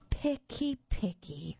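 high whiny "Picky" then dropping on "picky"; complaining monster. A narrator's reading. Monster Herbert grumbling at the picky kid, whiny. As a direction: Herbert fussing like a fussy monster. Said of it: "Herbert complained".

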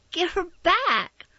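high, loud, slow scream. A narrator's reading. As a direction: shriek it at the house mother. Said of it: "I screamed".

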